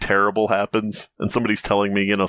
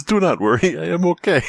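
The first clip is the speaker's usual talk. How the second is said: mock statement; 8 semitones higher than usual. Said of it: "He says".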